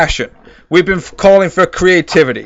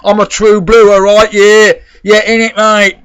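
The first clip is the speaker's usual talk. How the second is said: a touch louder, puffed-up tough-guy boast; mock hard man; 3 semitones higher, 4 dB louder than usual. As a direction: play the swaggering hard man, pushing it a bit. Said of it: "gets all hard on it".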